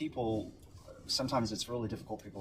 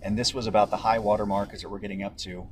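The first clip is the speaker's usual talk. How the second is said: raised voice over the storm noise; shouting over wind; 4 dB louder than usual. Real, not acted. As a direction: project loudly over the wind. Reporter live in hurricane wind.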